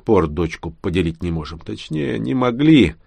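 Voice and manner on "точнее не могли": plain reading voice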